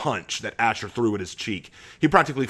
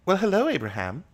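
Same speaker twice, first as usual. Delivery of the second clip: high, gentle hello to a friend; kind greeting; 8 semitones higher than usual. A narrator's reading. Katie kindly greeting Abraham, gentle. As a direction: greet him kindly, not harshly. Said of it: "Her voice was kind, not harsh".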